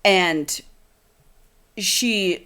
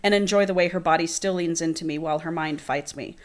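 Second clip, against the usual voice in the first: reading a romance novel aloud, a bit softer; dramatic book reading; 4 dB quieter than usual. Acted. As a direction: read the scene like an audiobook.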